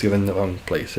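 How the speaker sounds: ordinary talk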